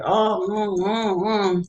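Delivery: a mocking take on five-year-olds complaining; mocking whiny kids. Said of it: "I'm marking the kids".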